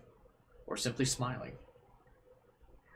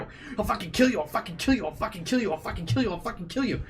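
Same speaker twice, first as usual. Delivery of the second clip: starts plain, climbs far higher and louder each time; building to a scream; 10 semitones higher, 7 dB louder, faster than usual. Acted. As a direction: lose control until you're screaming it. Repeated threat building to screaming.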